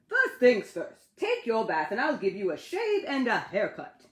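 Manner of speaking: playful big-brother order; Ted voice. Acted.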